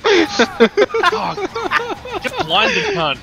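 screamed high and loud; furious shout. Real, not acted. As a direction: explode in rage at the screen. Raging at a game death.

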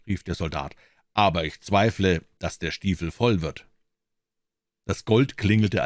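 measured fairy-tale reading, lively on the dialogue; story narration. A narrator's reading. Narrator tells a tale of a soldier and the devil, storytelling. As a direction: read it as an expressive storyteller.

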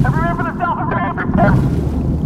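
calling out. Pretend. Calling out to group.

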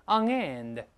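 ON and END kept apart, END stressed; two separate words. Shown as a demonstration. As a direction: say "on end" unlinked, weight on end. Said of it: "这个不连读啊，and重读要分开".

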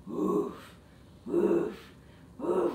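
short playful woofs; puppy bark. Pretend. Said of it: "Let me hear your bark".

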